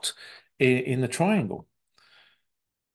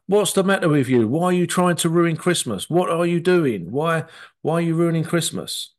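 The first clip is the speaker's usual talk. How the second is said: scolding persecutor; 4 semitones higher than usual. Retold or imitated. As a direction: tell Mum off for ruining Christmas. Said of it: "Or you could be the persecutor".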